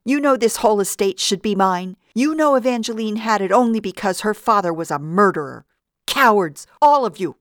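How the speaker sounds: high, loud shriek. A narrator's reading. Vida shrieking at her accomplices, raving. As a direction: rave at them, shrieking. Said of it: "until she was shrieking".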